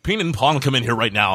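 put-on dad calling kids in; a hint of a stern dad; white dad calling. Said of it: "like, dad, like".

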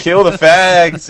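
loud, slow mock hillbilly yell; redneck bigot voice. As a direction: caricature a hateful bigot. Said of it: "K K K talk".

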